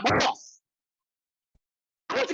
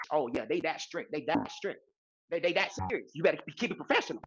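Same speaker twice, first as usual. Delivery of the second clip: mock serious; 7 semitones lower, 5 dB quieter than usual. Reacting low and serious.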